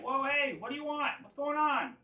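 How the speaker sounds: high-pitched, suspicious challenge; wary creature leader. Acted. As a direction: question intruders in a high little-monster voice. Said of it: "he's just kind of like".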